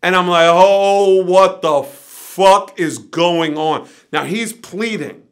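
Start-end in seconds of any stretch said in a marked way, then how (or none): 0.5-3.9 drawn-out, slow, loud bewilderment; exasperated disbelief. Retold or imitated. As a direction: stretch it out, overwhelmed by the chaos. Overwhelmed as chaos piles up.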